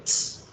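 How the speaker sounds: "ts" as a bare voiceless t burst; isolated ending sound. Shown as a demonstration. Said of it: "¿Cuándo debe pronunciarse". ("ts" como sonido aislado de "t", sin vocal)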